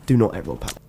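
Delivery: low, grave mock-serious voice; mock dramatic announcer. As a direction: play it like a dramatic warning.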